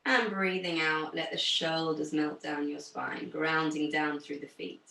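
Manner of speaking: low, calm meditation-style voice; guided breathing. Real, not acted. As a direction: settle the class into stillness. Leads calming breathing exercise.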